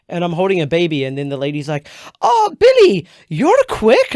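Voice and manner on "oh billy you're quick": high, loud mock host voice; teasing host. The cabaret host teases him in a high, loud voice.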